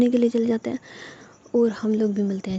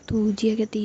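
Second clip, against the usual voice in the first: ordinary delivery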